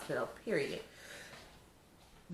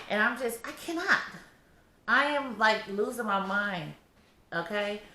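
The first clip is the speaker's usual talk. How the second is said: fed up, voice climbing; exasperated; 4 semitones higher than usual. Real, not acted. Heavily pregnant vlogger telling viewers she's losing her mind, exasperated. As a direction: pitch jumping high, at the end of her rope. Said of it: "You can tell I'm irritated".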